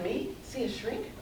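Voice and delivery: mock-incredulous, voice rising on the question; horrified scoff. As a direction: scoff at the very idea. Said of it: "I was horrified".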